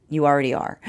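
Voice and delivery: a hint of a calm inner voice, lightly voiced. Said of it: "I can hear the higher self saying".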